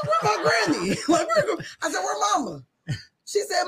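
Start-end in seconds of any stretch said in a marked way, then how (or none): 0.1-1.6 put-on high-pitched bewildered kid voice; imitated little child. Lost child asking the church lady for granny, imitated small voice. Voicing herself as waking child. 2.0-2.6 put-on high-pitched bewildered kid voice; imitated little child. Lost child asking the church lady for granny, imitated small voice.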